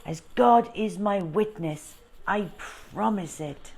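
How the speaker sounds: a hint of solemn French showman; lightly voiced Frenchman vowing. Frenchman swearing to Bertie, a hint of solemnity. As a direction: swear it with a light hand on heart.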